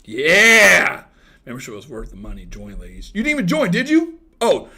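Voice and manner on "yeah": loud, drawn-out yeah; long mock-excited whoop; big cheer. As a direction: belt out an exaggerated cheer. Cheering an imagined happy answer.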